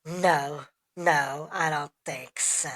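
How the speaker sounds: mock-dismissive customer refusal; disgruntled customer. Customer refusing to believe the worker, disgruntled. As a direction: refuse with pointed little pauses. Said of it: "just like a disgruntled customer".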